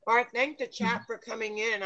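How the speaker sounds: talking through a mouthful; words round a bite of cookie; mouth full. Real, not acted. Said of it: "I'm talking with my mouth full".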